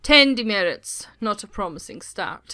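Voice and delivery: a mild hint of a disdainful teacher; changed professor voice. Professor reads the new student's file, mildly sneering. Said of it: "This voice is awful".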